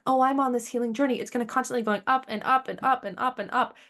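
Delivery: playing the naive beginner who thinks it's all up; naive healer voiced. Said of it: "So when you're like".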